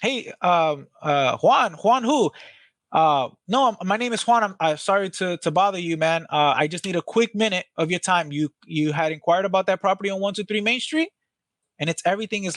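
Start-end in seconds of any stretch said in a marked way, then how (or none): 0.0-11.1 high-pitched, excited, eager phone voice. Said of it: "like, high pitch, high voice".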